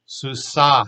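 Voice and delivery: susa with an extra breath after the last A; breathy final H. Shown as a demonstration. Teacher showing the mapik ending, susa with breath at the end. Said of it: "add that little extra breath at the end".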